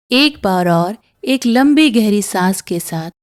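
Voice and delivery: calm meditation guide with long pauses; unhurried breathing-exercise voice; guided meditation. Acted. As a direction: guide them gently through each breath, pausing between phrases.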